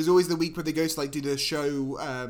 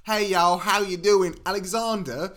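louder put-on Southern drawl; mock Southern accent; 2 semitones higher, 3 dB louder, slower than usual. Boyfriend imitates Canadian girlfriend greeting him, mock Southern accent. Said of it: "she's from, uh, Southern Canada".

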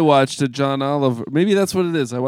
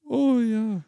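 a higher, singsong Canadian "Oh, yeah"; light Canadian twang, pitched up; Canadian accent; 10 semitones higher than usual. Retold or imitated. Retelling his party trick for friends, mock Canadian accent. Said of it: "a killer Canadian impression".

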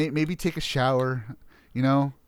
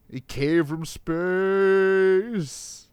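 slow, drawn-out movie trailer announcer; 5 semitones higher, much slower than usual. Acted. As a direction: announce it like a fifties horror trailer. Pitching fifties alien B movies.

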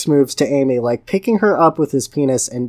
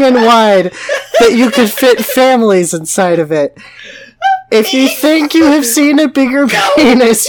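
grand epic narration; 6 semitones higher, 5 dB louder than usual. Acted. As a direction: proclaim it like a trailer voice. Epic narration of absurd story.

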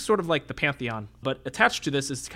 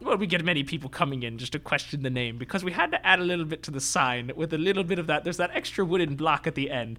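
squat little tailor voice; 2 semitones higher than usual. Acted. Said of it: "speaks in a voice like this".

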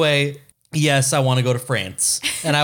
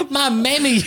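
hammed-up Southern accent; 14 semitones higher than usual.

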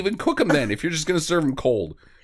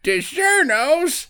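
put-on high, slow, disgusted old lady voice; old lady recoiling at frozen pizza, high and slow; appalled old lady; 11 semitones higher, much slower than usual. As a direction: squeak it out like a scandalised granny. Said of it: "She's like".

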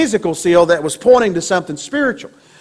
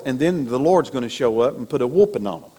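put-on country boy voice; 8 semitones lower, 6 dB quieter than usual. Shown as a demonstration. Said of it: "I said that like a country boy".

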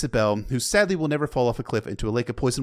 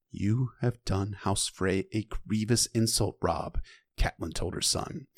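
steady, lower storytelling read of "The maid came forward"; book reading; 3 semitones lower, 6 dB quieter than usual. Acted. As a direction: read it like an audiobook narrator. Reads the novel passage aloud.

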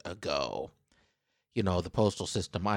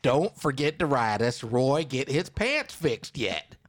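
louder, slow reading that lands flat; emphatic reading; 5 semitones higher, 5 dB louder, slower than usual. Shown as a demonstration. Host rereads the last lines at his laughing co-host, emphatic. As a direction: punch it out as a deadpan statement. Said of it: "Not a question mark".

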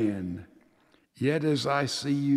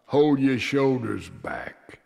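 stern reply; slower than usual. Acted. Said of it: "I frowned and said in reply".

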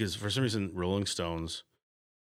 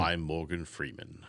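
Morgan Freeman impression. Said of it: "And I can't do that".

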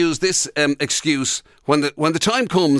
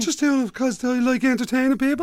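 mock defensive tax dodger; 8 semitones higher than usual.

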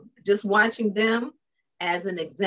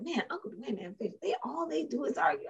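mock complaint; 6 semitones higher, 10 dB quieter than usual. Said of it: "why did we sound like Uncle Dwayne and Aunt Faith".

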